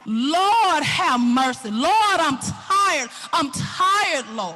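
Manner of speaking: acted cry for mercy; weary crying out. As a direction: cry out in exhausted appeal. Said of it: "is just cry out".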